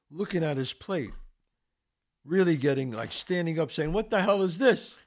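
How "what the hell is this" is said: high-pitched mock outrage; retold freak-out. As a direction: act out an appalled diner. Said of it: "He's freaking out".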